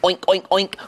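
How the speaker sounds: quick playful oinks; pig oinking. Acted. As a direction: oink like a storybook pig. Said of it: "A pig says".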